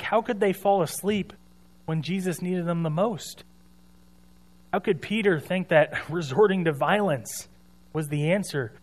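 mock a self-righteous critic's questions, lightly; how-could-they reproach, acted out; critical disbelief. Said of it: "I find myself criticizing all these people".

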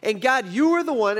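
mildly hammed-up reproach; acted blaming. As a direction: put the blame squarely on God. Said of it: "it's almost like he's blaming God".

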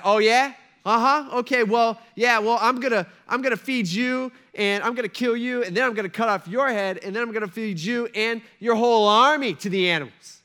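loud, high, one-upping comeback; one-upping boast. Retold or imitated. Pastor voicing David one-upping Goliath, loud and high-pitched. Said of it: "a one-upper".

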